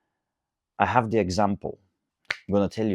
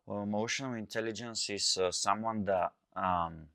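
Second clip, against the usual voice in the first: softer, mildly mocking retold reply; mocking a girl's answer; 3 dB quieter than usual. Host mimics a girl explaining emotional intelligence, softer mild mockery. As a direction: lightly voice her vague answer, softer. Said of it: "Just some stupid answer".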